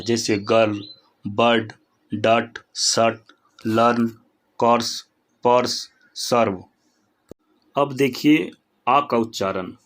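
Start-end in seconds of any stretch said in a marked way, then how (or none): 0.5-6.6 "गर्ल, बर्ड, डट" and the rest with the a drawn out; word by word, long a as in "गर्ल, बर्ड, सर्व"; lengthened vowel. Shown as a demonstration. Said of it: "अ को लंबा किया जाता है".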